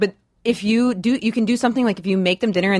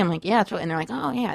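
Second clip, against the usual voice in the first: normal talking voice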